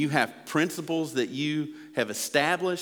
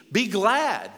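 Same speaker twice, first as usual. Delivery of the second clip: loud exhortation; 8 semitones higher, 5 dB louder than usual. Acted. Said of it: "He literally says".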